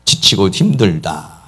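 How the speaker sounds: normal talking voice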